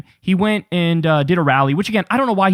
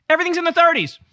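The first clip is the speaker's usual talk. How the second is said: emphatic disbelief; 9 semitones higher than usual. Real, not acted. Emphatic about polls.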